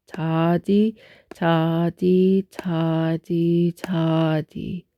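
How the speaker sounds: ta di spoken crisply to the beat; counting ta di in time; rhythm syllables. Shown as a demonstration. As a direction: chant ta di evenly on each beat. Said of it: "this is pronounced".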